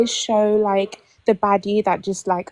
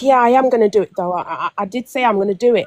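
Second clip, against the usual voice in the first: fast, louder, defensive brush-off; defensive attitude; 3 dB louder, much faster than usual. Retold or imitated. Ex answers her reminder, in a fast, defensive tone. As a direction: snap back that you'll do it. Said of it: "a little bit of an attitude".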